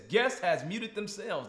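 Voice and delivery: slow, deliberate readout; reading the screen slowly. Shown as a demonstration. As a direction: spell out each word of the message. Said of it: "'cause it says".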